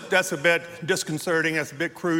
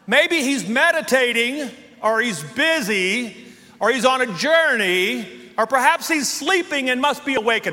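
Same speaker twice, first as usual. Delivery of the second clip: sarcastic taunt; 3 semitones higher than usual. Retold or imitated. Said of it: "Here's the trash talking".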